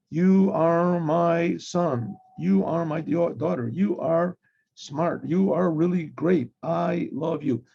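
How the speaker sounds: put-on slow, rote kind words to the kids; saying loving words with no heart in them; mechanical praise, no feeling. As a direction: recite love like a checklist. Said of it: "without any feeling".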